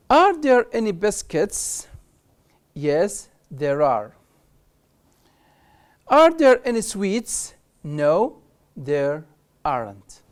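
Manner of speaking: slow, clear ask-and-answer reading; question and answer drill. Shown as a demonstration. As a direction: model both sides of the dialogue. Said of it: "شوف هنا ask and answer". (قراءة سؤال وجواب ببطء)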